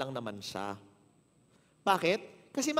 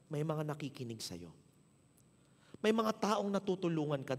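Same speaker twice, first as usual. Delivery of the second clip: sincere encouragement; 3 semitones lower than usual. Retold or imitated. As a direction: gently lift him up. Encouraging the driver.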